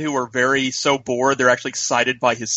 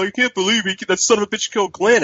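retold outrage; 7 semitones higher, faster than usual. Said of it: "you'll be talking to somebody, they'll go".

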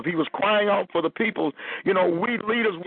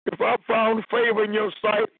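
higher, pleading voice, as if close to tears; pleading Moses; 4 semitones higher than usual. Acted. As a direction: beg God like a worn-out leader at his limit. Preacher voices Moses pleading with God.

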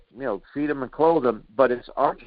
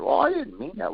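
higher, simpering mock excuse; mock backpedaling; 10 semitones higher than usual. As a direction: whine it like a weak excuse. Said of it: "backpedaled and said".

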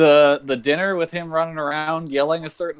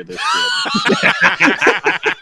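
slow, laughing near-shout; can't hold the laugh in; laughing call-out; 4 dB louder than usual. Real, not acted. Excited telling boss, laughing.

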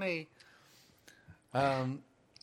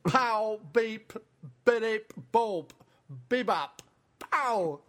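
droid beeps; 4 semitones higher than usual. Acted. R2-D2 beeping bit.

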